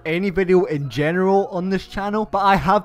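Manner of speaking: stuffed-up nose from hay fever; blocked nose. Real, not acted. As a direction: speak through a blocked nose. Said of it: "I sound like I have a cold, or if I sound like I'm stuffed up".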